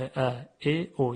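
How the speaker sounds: "ا، ا، او" as short vowels a, e, o; three short, separate vowel sounds, "ا، ا، او". Shown as a demonstration. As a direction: keep each vowel brief in "ا، ا، او". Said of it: "صداهای کوتاه".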